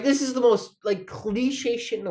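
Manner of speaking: amused disbelief. Real, not acted. Laughing at own crying.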